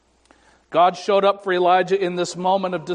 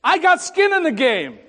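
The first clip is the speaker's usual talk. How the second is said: Jesus speaking; 10 semitones higher, 3 dB louder than usual. Retold or imitated. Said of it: "Jesus says to me".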